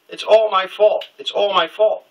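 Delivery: high, slow mock sobbing; retold bawling. Teen friend blubbering after the coming out, mock sobbing. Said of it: "he just starts bawling".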